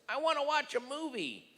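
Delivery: put-on high little-girl voice; daughter's voice. Comic quoting his daughter asking her mom for a movie. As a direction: answer brightly like a small child. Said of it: "And my daughter says".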